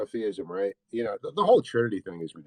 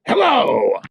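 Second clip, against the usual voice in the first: calling out hello; 12 semitones higher, 8 dB louder than usual. Real, not acted. Greeting caller on air.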